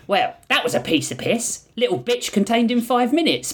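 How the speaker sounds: high, gleeful cheer; celebrating. Acted. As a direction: crow it like a quick win. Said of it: "Blotch celebrated".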